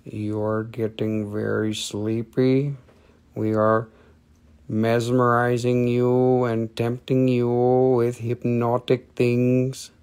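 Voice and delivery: slow, soft, mock hypnotic drone; a light hint of a hypnotist tempting the buyer. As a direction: lull them under like a stage hypnotist, slowly. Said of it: "It grabs you and it says".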